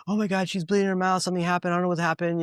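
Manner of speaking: mock frantic, voice lifted high; imitating panicked sitter. Retells panicked pet sitter's call.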